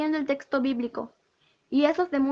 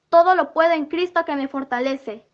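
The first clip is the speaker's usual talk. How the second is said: louder, firm proclamation; defiant declaration; 5 dB louder than usual. Retold or imitated. Dreamer defies the devil with scripture, loud and firm. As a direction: declare it boldly at the enemy.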